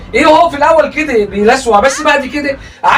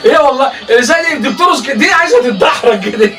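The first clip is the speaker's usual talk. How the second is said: real laughter running into the words; laughing while talking. Real, not acted. Mocking the dancer to Samir, laughing. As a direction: talk through leftover giggles. Commenting through laughter at clip.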